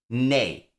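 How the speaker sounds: nay said alone, firm and clear; nay, set apart and firm; stressed syllable alone. Shown as a demonstration. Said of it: "The stress in that word is nay".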